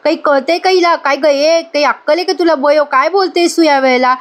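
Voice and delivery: mildly acted indignant questioning; retold scolding. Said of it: "ओरडते आणि म्हणते".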